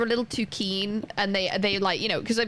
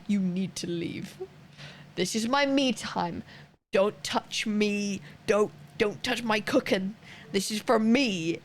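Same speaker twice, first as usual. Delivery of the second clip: slow, firm telling-off, not raised; mock mad; slower than usual. Streamer telling partner to leave the cooking alone, mock mad. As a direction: spell it out slowly, word by word. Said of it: "Really mad".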